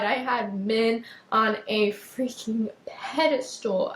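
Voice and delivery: slow, drawn-out, and moved; emotional emphasis. Real, not acted. Host overcome while confessing her past, slow and emotional. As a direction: lean on each word as it hits you. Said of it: "this made me so much more emotional than I thought".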